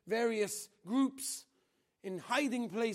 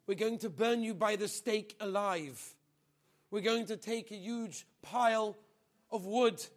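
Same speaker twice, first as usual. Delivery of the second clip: loud, fast soldiers' threat; menacing threat; 2 semitones higher, 4 dB louder than usual. Retold or imitated. Soldiers threatening the girl with burning, loud and fast.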